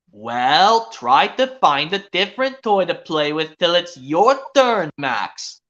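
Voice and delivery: slow, steady mother's advice; calmly redirect the child; patient mom voice. Pretend. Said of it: "see if I can do another impression".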